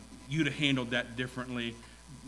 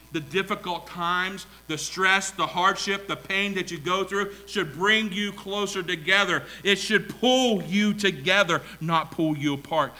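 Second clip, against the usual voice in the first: raised, louder sermon delivery; emphatic preaching; 5 semitones higher, 8 dB louder than usual. Real, not acted. Preacher to married couples on hardship, emphatic. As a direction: press each phrase on the listeners.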